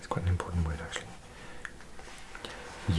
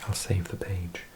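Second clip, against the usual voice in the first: ASMR whisper. Real, not acted. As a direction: whisper every word as if close to the mic. Whispered ASMR language lesson.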